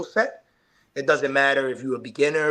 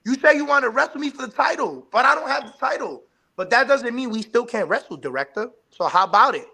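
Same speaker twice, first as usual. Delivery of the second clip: raised, pushy challenge to a rival; wrestling promo callout; 8 semitones higher than usual. Acted. Wrestler calling out Mister Director for a match, pushy promo voice. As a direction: throw down the challenge like a heel in the ring.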